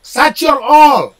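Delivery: "Shut your hole" with "hole" said as 'ole, no H; drop the H. Shown as a demonstration. Teaching a friend the Aussie 'ole, no H, slowly. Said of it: "get rid of the H".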